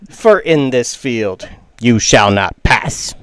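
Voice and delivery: lightly voiced little creature, slowly declaiming; solemn, measured verse with a touch of creature voice; tiny weird voice. Tiny dandelion defying the weeds around it, lightly voiced solemn recital. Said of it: "this is a tiny little weird voice".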